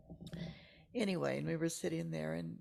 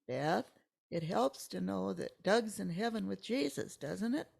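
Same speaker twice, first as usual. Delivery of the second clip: louder, pressing the question; insistent repeat; 3 semitones higher, 8 dB louder than usual. Retold or imitated. Friend repeating comfort to a silent Beth, louder. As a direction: push the question harder. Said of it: "And he goes".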